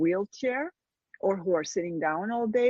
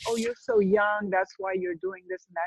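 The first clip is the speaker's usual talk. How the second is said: mocking patronising tone; 12 semitones higher than usual. Quoting patronising older people.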